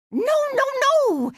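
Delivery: high, impatient string of refusals; exasperated scolding. Acted. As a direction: cut the player off in exasperation. Scolding a failing player.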